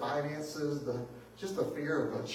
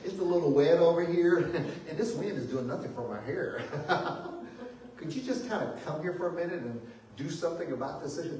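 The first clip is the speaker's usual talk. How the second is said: mock polite request; 2 semitones higher than usual. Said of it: "It wasn't like".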